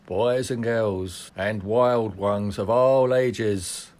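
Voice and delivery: slow, drawn-out carnival barker pitch; snake oil seller. Pretend. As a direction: roll up the crowd like a fairground huckster. Carnival barker opening the show.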